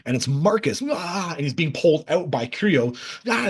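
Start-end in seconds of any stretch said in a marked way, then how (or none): 0.9-1.3 high, restrained imitation scream; mock scream. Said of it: "he's screaming at them". 3.3-3.5 quick imitation of a scream; mock scream. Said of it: "he's screaming at them".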